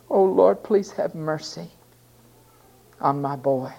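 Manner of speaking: begging. Acted. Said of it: "he begged".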